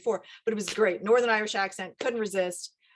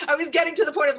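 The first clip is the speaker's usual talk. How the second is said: laughing; 6 semitones higher, 6 dB louder, much faster than usual. Real, not acted. Laughing about forgetting lines.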